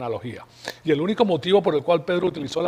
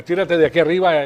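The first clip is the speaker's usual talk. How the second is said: louder, goading dare from the tempter; Satan's taunt; 7 dB louder than usual. Retold or imitated. Satan dares Jesus to throw himself down, goading. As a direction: taunt him to jump.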